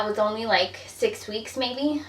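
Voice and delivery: short of breath while talking; breathless from pregnancy. Real, not acted. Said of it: "Sorry, I'm out of breath as I talk".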